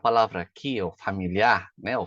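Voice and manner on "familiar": familiar with the last syllable stressed; Portuguese pronunciation. Shown as a demonstration. Teacher shows learners the Portuguese word, familiar stressed on its last syllable. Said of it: "em português".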